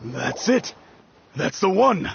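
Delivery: high delighted cry of recognition; excited recognition. Acted. Mister Zhu sees his ring again, high and excited. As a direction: owner spots his lost ring, thrilled and high.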